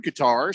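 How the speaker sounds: "Qatar" said kuh-TAR; "Qatar" ending in a long AR; stress on second syllable. Shown as a demonstration. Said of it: "I had heard Qatar".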